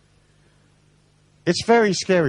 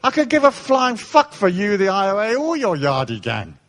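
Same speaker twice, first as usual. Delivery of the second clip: mock tough talk; 5 semitones higher than usual. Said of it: "I said".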